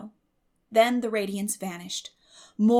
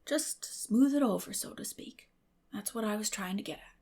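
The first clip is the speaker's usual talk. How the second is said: Matthew, coaxing. Acted. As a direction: gently talk her round.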